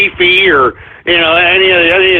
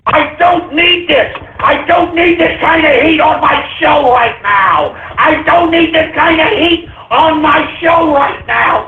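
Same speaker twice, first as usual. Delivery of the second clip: exasperated shouting; 5 semitones higher than usual. Acted. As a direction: vent it at full volume. Ranting about controversy on show.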